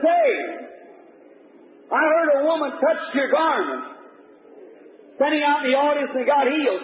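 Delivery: high, jeering heckle that turns to shouting; mocking taunt. A scoffer in the crowd dares Jesus, jeering shout. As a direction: heckle him, daring him to prove it.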